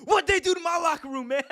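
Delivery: high, rushed mock outrage; Booker T breaking character. Wrestler finds his locker room messed up, imitated as a high outraged outburst. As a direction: yelp it, dropping the act completely.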